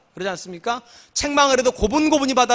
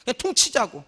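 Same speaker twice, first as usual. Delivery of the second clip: ordinary talk, nothing marked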